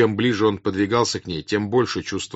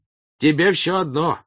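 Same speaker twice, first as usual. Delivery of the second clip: loud, high-pitched accusations; heated high-voiced tirade; angry shouting; 8 semitones higher, 6 dB louder than usual. A narrator's reading. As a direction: shout reproaches at the village elder. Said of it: "кричал на него Карп".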